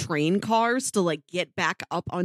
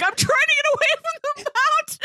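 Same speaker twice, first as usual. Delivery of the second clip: exasperated Ethan. Retold or imitated. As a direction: blurt it out in desperation. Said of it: "they're so exasperated".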